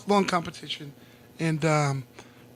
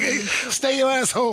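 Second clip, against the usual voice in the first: higher, slow scolding through laughter; laughing scold; 6 semitones higher, much slower than usual. Retold or imitated. Telling the young Marine not to re-enlist, slow laughing scold. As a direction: laugh while ordering him to stay put.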